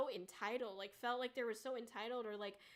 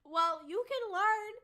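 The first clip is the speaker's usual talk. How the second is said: louder, slow, heated retort; 6 semitones higher, 8 dB louder than usual. Real, not acted. Streamer ranting at entitled fans, slow heated retort. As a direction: snap back slowly and firmly.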